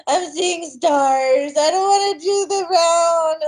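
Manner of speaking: slow, winded and laughing; out of breath. Retold or imitated. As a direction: drag it out, out of breath. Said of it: "I feel so lightheaded".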